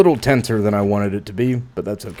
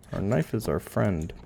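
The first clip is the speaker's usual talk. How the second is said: quieter, murmured repeat of the creed; soft echo; 3 semitones lower, 6 dB quieter than usual. Pretend. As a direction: say it again under your breath.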